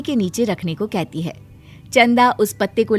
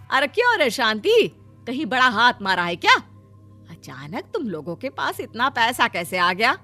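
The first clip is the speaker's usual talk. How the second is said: prying sister-in-law. Acted. Sister-in-law asking where the money came from, prying. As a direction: probe with suspicion.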